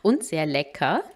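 soft, even recap voice-over; quiet vlog voice-over; voice-over narration. Acted. Voice-over recap between live clips.

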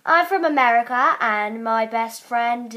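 put-on American drifting into Australian; wobbly American-Australian accent; American accent slipping Australian. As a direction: try American and slide towards Australian. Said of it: "oh, I'm going Australian".

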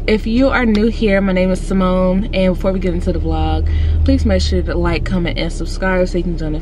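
talking with a retainer; slushy speech through a retainer; retainer lisp. Real, not acted. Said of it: "I sound like a five-year-old".

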